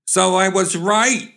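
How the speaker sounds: high, drawn-out indignant exclamation; exclaiming. Acted. Woman slapping her suitor, exclaiming. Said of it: "she exclaimed, slapping him".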